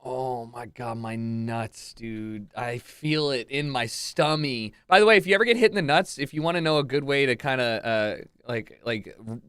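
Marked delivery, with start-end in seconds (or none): 0.1-4.7 pained, winded groaning voice; just hit in the groin. Real, not acted. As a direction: talk through groin pain.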